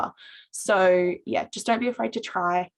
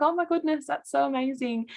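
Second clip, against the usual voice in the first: much higher, delighted retold exclamation; delighted gasp; 7 semitones higher than usual. Student hearing she is known from TikTok, high delighted exclamation. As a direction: replay your own amazed reaction. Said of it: "I was like".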